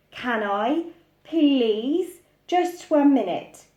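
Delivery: lightly voiced pleading child; begging child. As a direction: beg like a small boy.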